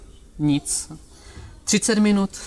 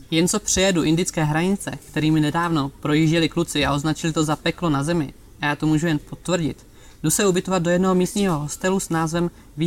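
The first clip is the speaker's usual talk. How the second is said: reading his travel story aloud; calm storyteller reading from his book; story narration. Acted. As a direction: narrate the trip with a light, dry humor.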